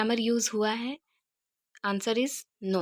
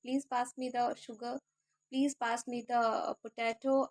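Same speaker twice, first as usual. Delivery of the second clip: slow, careful requests; slow examples; 6 dB quieter, much slower than usual. Shown as a demonstration. Teacher giving sample requests, slow and careful. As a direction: lay out each word slowly. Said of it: "आप salt की जगह पे कुछ भी".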